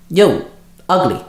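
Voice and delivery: cocky call across the room. A narrator's reading. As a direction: call out to the monster, mocking. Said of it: "I called out".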